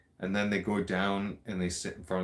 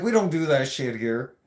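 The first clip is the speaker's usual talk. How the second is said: laughing reveal; 5 semitones higher, 6 dB louder than usual. Real, not acted.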